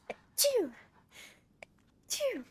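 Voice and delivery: tiny high squeaky sneeze; Pikachu sneeze. Real, not acted. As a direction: sneeze like a little Pokemon. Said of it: "Sorry for my Pikachu sneezes".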